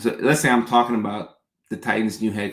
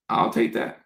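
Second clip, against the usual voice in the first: whispered high repeat; 12 semitones higher than usual. Real, not acted. Repeats to herself.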